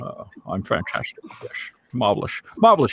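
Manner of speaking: Sean Connery impression. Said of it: "That's a great Sean Connery accent".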